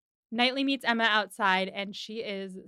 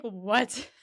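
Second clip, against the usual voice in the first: shocked. Retold or imitated. Emma shocked by news.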